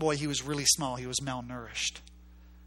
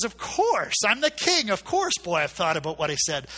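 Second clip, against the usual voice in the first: higher, louder regal declaration; proud booming king; 4 semitones higher, 6 dB louder than usual. Retold or imitated. King answers the boy proudly.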